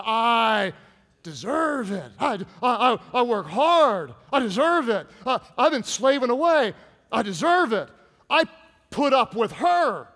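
a hint of a spoiled man whining; mock the entitled guy who thinks he earned it; entitled whiny man. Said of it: "Everybody say it".

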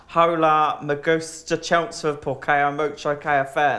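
put-on Spanish read in a broad Essex accent; mock schoolgirl Spanish with thick Essex vowels; true Essex accent. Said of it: "like, a true Essex, like, accent".

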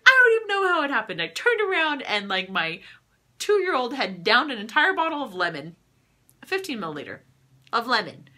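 high, loud, rushed retelling of a stunned mom; frantic retold panic. Teammate retelling her toddler's lemon oil scare, high and frantic. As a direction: imitate the panicked teammate, voice shooting up. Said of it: "She's like".

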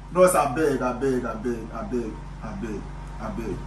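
begging that trails down to a murmur; fading plea. Acted. Friend begging the boss to forgive the boy, fading.

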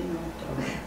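usual speaking voice

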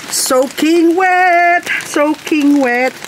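high, slow drawn-out wail; mock dismay. Gardener standing in rain moans she is soaking wet. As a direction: moan about being drenched, playfully.

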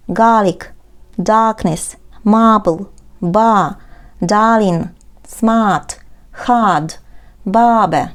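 words follow each other fast with short gaps; quick reading. Shown as a demonstration. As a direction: rattle through the list quickly. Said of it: "and now quick reading".

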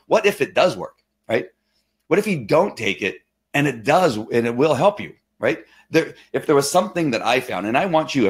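earnest, animated pitch rises; getting excited. Real, not acted. Urging viewers to try the oil, getting excited. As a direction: press the case eagerly to viewers. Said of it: "sorry, I'm getting excited here".

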